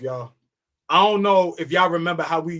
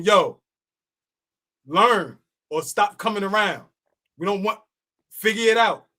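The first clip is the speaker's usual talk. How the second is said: higher, insistent retold scolding; mock telling-off; 4 semitones higher than usual. Telling novices who can't roll to shape up, mock scolding. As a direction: lay down the rule, pitched up.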